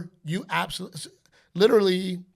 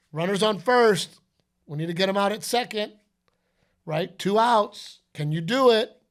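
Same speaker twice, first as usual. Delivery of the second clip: hyped coach; 4 semitones higher, 4 dB louder than usual. Retold or imitated. Coaching a game scenario.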